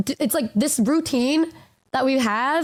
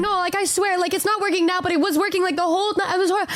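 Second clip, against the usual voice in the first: higher-pitched earnest insisting; insistent protest; 6 semitones higher, faster than usual. Retold or imitated. Retelling a girl insisting her shoes squeak, mock earnest. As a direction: imitate a friend swearing it is true. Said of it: "she was like".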